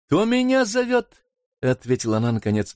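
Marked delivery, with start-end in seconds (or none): 0.1-1.2 put-on higher, light girl's voice; a carefree girl calling back; lightly voiced sister. Sister answers from the water, higher and light.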